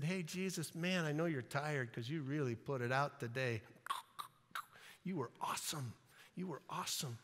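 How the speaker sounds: soft, tiptoeing flattery; hushed, buttering-him-up voice; gentle coaxing. Acted. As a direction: speak low as if carefully waking a tired friend. Disciples gently waking tired Jesus.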